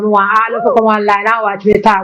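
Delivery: put-on Jamaican accent. Singer performs Jamaican accent for the host on request. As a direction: slip into a gentle Jamaican patois. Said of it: "Say something with the Jamaican accent".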